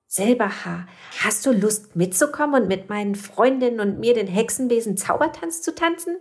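eager little witch. Acted. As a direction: invite him along excitedly. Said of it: "fragte Mimoselle".

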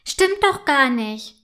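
langsam und lauter, gekränkt widersprechen; beleidigt. A narrator's reading. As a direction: ein verletztes Kind, das sich wehrt. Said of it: "entgegnet Clara beleidigt". (gekränkt, langsam und etwas lauter widersprochen)

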